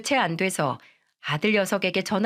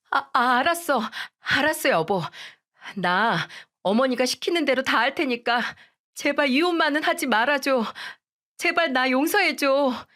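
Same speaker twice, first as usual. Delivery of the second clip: put-on higher, begging young wife voice; pleading daughter-in-law; 6 semitones higher than usual. Daughter-in-law begging mother-in-law and husband, higher pleading voice. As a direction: plead desperately, a touch tearful in tone.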